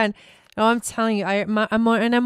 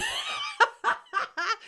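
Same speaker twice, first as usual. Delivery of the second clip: big laugh; 6 dB quieter than usual. Real, not acted. Laughing at own rant.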